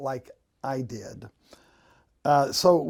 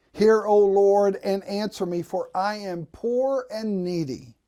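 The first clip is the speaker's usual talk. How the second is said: impassioned scripture reading; 4 semitones higher, 5 dB louder than usual. Acted. Preacher reading a psalm's cry for help, emphatic plea. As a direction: read it as a cry to God. Reads psalms aloud as pleas.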